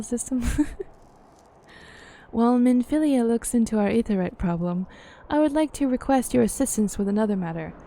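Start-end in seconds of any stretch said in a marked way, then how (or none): 2.3-7.7 measured, formal fantasy character reading; game dialogue read-aloud. Acted. Character weighing up the myth of Shiva, formal dialogue reading.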